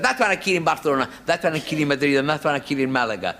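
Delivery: put-on Spanish accent, Spanish place names rolled; mock Spanish waiter. Barman listing where he killed the bulls, in a mock Spanish accent. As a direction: point out each bull like a hammy Spanish waiter. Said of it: "I sound like a waiter on the Golden Egg".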